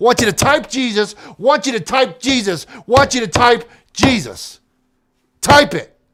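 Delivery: very loud, slow, fired-up, insistent, worked up. A host urging listeners to type a word before a commercial: excited. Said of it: "I got a little excited on that one".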